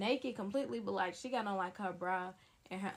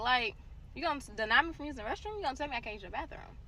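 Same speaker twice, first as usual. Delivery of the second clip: fast, louder indignant questions; heated retold argument; 4 semitones higher, 3 dB louder, faster than usual. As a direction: rattle off the outrage, high and pushy. Arguing with boyfriend over bathroom.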